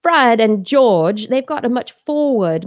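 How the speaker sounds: put-on forward-placed boyish voice; Fred and George. Shown as a demonstration. Mother demonstrating her twins' reading voice, forward-placed. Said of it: "more forward s-, sound".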